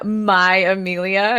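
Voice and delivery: slow, drawn-out stress on "my"; "my" lingered over, claiming her; mock possessive. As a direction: lean possessively on "my", stretching it out. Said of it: "tries to get all possessy".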